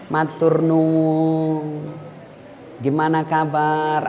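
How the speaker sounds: soft, very slow, courteous; soft-spoken speaker showing polite greeting; gentle polite greeting. Shown as a demonstration. Preacher demonstrating refined speech, soft and slow. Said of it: "halus tutur katanya".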